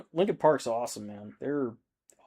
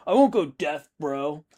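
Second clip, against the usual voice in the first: dumb bro voice; 3 semitones higher, 4 dB louder than usual. Retold or imitated. Mocking kid's dismissive reply.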